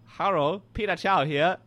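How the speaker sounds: lightly put-on Chinese accent greeting; announced mock Chinese accent; badly faked Chinese accent. Shown as a demonstration. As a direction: attempt a hammy Chinese accent. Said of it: "I'm gonna do an accent".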